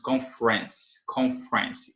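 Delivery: "conference" squeezed to two syllables, CON-frens; reduced "conference". Shown as a demonstration. Teacher demonstrating "conference" reduced, with F running straight into R. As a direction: drop the middle E of "conference", joining F to R. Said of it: "O E em final de sílaba não é pronunciado".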